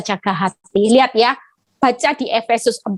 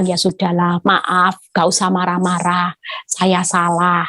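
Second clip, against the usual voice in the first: lower-pitched, lightly conciliatory apology; retold as a meek giving-in; low, resigned peacemaking; humble apology; 5 semitones lower than usual. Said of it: "saya selalu merendahkan hati".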